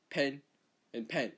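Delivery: "pen and pen" in New Zealand accent, nearly alike; New Zealand pronunciation. Shown as a demonstration. Australian imitating New Zealand speech, "pen and pen" in New Zealand accent. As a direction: make both words sound alike, New Zealand style. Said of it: "New Zealand, they say".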